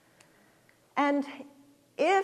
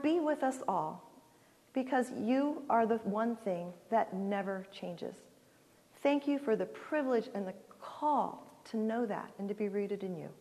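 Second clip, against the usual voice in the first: prayer. Acted. Widow praying over the church at the end, earnest prayer voice. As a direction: pray over the people, sincere and unhurried.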